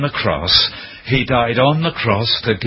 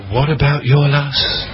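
accusing inner voice; 4 semitones higher than usual. Retold or imitated. Conscience accusing him.

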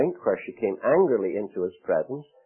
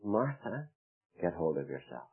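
mock stern rebuke; 4 semitones lower, 11 dB quieter than usual. Shown as a demonstration. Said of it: "The Lord, I don't think, talks that way".

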